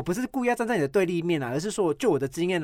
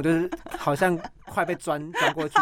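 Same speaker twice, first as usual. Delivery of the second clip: laughing; 3 semitones higher than usual. Real, not acted. Joking about nose picking.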